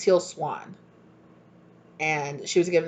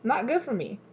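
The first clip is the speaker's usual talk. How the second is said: quiet, high, breezy letdown; soft dismissive; 8 semitones higher, 5 dB quieter than usual. Retold or imitated. Calmly turning down the other person, soft and airy. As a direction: shrug it off softly. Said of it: "You're like".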